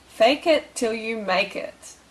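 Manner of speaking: "Fake it till you make it" slowly spaced out; slow, emphatic repeat. Shown as a demonstration. Coach repeating the tip to viewers, slow and emphatic.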